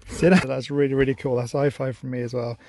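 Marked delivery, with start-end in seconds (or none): 0.1-0.4 louder repeated sit command; firm command. Real, not acted. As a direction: firmer second telling to the dog.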